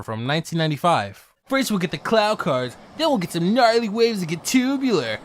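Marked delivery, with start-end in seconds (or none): 1.5-5.2 California surfer voice. Retold or imitated. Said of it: "sounds like a California surfer".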